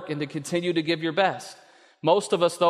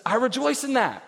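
God's bright raised voice; God rejoicing; 8 semitones higher than usual. Retold or imitated. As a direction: let him delight in your effort. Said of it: "And he says".

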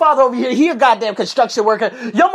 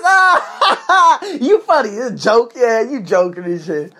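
laughing Thomas; slower than usual. Retold or imitated. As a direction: laugh it off as a joke. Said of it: "he's laughing".

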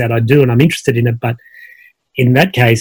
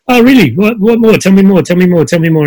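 high, louder bursts of keen interest, easing off by the end; imitating a trainer leaning in, hungry to hear more; eager curious questions; 5 semitones higher, 4 dB louder than usual. Trainer asks why he came, imitated as eagerly curious. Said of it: "she stayed curious with me".

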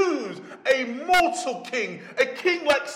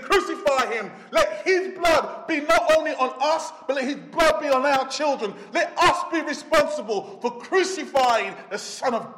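loud, high shouting mob; crowd shouting; 3 semitones higher, 3 dB louder than usual. Acted. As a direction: yell it out like an angry crowd. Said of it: "And they said".

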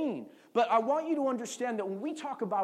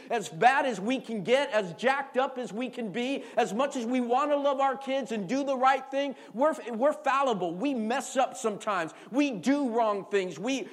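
loud, raised preaching to the congregation; preaching at full force; 2 semitones higher, 3 dB louder than usual. Acted. Pastor urging fathers in the church, full-force preaching. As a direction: preach it hard to the dads.

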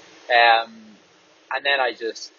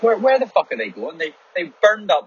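a touch of road rage, louder; real mild road rage at drivers cutting in; 7 semitones higher, 6 dB louder than usual. Real, not acted. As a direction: bark at the other drivers. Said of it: "Where's my road rage?".

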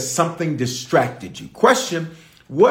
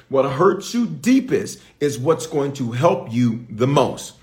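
each word laid down slowly; slow it down so it sinks in; slow, weighty delivery; slower than usual. Shown as a demonstration. Preacher to church, slow and deliberate. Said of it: "I'm gonna say it a third time".

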